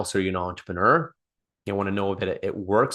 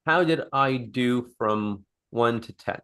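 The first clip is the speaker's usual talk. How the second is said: slow ask; slower than usual. Shown as a demonstration. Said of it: "repeats question as demo".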